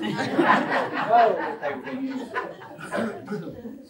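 giggling wrap-up of a funny family story; laughing. Real, not acted. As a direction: let the laugh carry the words out. Teller still laughing at story.

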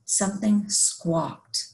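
lively rhyming story read-aloud; picture-book narration. A narrator's reading. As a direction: read a rhyming tale to young children.

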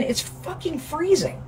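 high, squealing preview of the cold; mock freezing shriek. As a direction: squeal as if already in icy water. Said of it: "the second I climb in".

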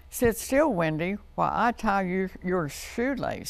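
lightly voiced bossy sister; a touch of big-sister impatience; Sister's voice. Sister tying Wendy's shoelace, mildly bossy. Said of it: "said Sister".

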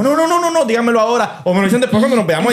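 high-pitched run of no's, then demand it now; emphatic refusal. Real, not acted. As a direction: protest fast and high, half joking. Rechazo enfático a fantasmas. (negativa enfática y aguda)

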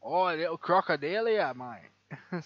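quick, loud Australian twang on "crocodilia"; hammed-up Aussie, stretching "crocodilia" with a falling tune; Australian accent. Joking about a crocodile word, in a loud Australian accent. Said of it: "Had to do an Australian accent there".

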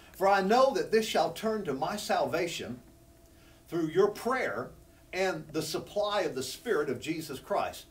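slow, weighty reading with "your" leaned on; slow emphatic scripture reading. Shown as a demonstration. Preacher reading Paul's verse slowly to the church, emphatic. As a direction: read it slow, pressing "your prayer". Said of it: "I want to emphasize that word supply".

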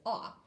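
"Ah" as a short open ah, like the start of octopus; teacher models a clean open "Ah"; short ah sound. Shown as a demonstration. Teacher shows the octopus sound to the class, open ah. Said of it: "the way that we do Aussie octopus".

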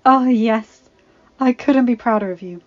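proud mother. A narrator's reading. Mother praising her daughter.

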